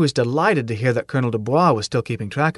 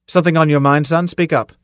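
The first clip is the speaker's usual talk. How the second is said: crisp, louder, commanding demand; sharp; 4 semitones higher, 4 dB louder than usual. Acted. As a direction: snap the question at him. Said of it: "and said sharply".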